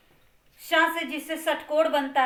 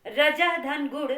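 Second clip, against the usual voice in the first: slow split form. Shown as a demonstration. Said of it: "उच्चारण किसका होगा".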